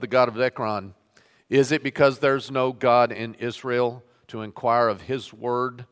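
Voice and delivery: measured public Bible reading; scripture reading. Acted. Pastor reading Kings to his standing congregation, measured reading voice. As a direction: read the passage aloud to the congregation.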